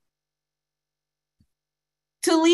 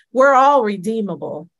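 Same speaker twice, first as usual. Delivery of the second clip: proclaiming loudly; 2 semitones higher, 6 dB louder than usual. Acted. Preacher declaring to congregation, loud proclamation. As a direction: ring it out louder to the room.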